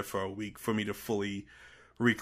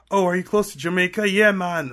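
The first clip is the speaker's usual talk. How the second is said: mock eager cluelessness; 9 semitones higher, 8 dB louder than usual. Imitating ignorant people's excited reaction.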